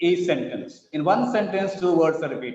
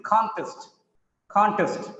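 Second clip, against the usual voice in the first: "contest" as CON-test; strong CON, weak test in "contest"; first-syllable stress; 3 semitones higher than usual. Shown as a demonstration. Teacher showing the noun, stress on CON in "contest". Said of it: "contest is a noun".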